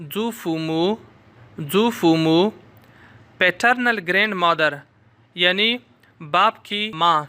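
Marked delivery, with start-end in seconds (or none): 0.1-2.4 saying the Chinese word zufumu carefully; जूफूमू pronounced as Chinese zǔfùmǔ, clear and slow. Shown as a demonstration. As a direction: model जूफूमू for the class. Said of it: "उसको कहते हैं".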